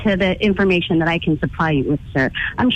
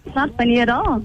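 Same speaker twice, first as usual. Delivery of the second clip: higher-pitched denial, holding in giggles; suppressed amusement; 4 semitones higher than usual. Real, not acted. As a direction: deny it while fighting real laughter. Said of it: "you're getting a real kick out of this".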